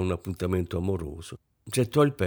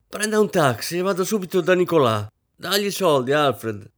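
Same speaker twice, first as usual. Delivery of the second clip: frantic orders; 9 semitones higher, 5 dB louder than usual. A narrator's reading. Rosine giving frantic orders.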